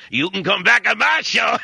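high mocking impression of a talk show host; Whoopi Goldberg. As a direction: squeal it like a gushing TV hostess. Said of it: "Whoopi Cushion Goldberg saying".

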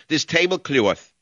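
slow, high New York mimicry; imitating her New York accent, slowly. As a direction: draw out the New York vowels. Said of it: "She speaks with the same accent".

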